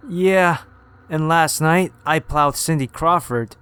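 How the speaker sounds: high mocking scoff; sarcastic. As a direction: scoff at an obvious lie. Dion mocks sarcastically, laughing.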